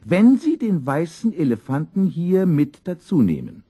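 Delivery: very high, loud shopkeeper's wife voice; hasty Frau Dix. A narrator's reading. Shopkeeper's wife hurriedly offering student a deal, hasty. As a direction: jump in hastily in a high-pitched woman's voice. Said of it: "sagte Frau Dix da hastig".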